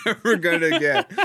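real laughter through the words; laughing. Real, not acted. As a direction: echo the joke while cracking up. Co-host cracks up echoing the joke.

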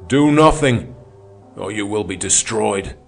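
warning cry. A narrator's reading. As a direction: ring out to warn his comrades. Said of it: "His voice rang out in warning".

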